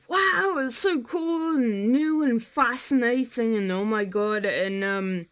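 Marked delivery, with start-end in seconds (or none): 0.1-3.5 excited. Retold or imitated. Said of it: "Niji Sanji was like".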